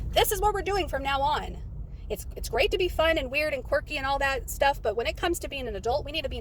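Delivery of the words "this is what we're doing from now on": mild retold scolding. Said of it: "she is telling the whole system".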